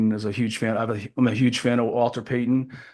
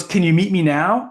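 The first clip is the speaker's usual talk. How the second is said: high, louder imitation, drawn out; Walter Payton; 4 semitones higher, 5 dB louder than usual. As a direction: ask slowly in a put-on high voice. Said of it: "Walter had a high voice".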